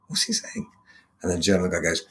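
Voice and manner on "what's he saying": a high, hushed whisper to his friend; hushed question. Retold or imitated. English tourist whispers to his German friend mid-speech, hushed and high. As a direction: lean in and ask it under your breath.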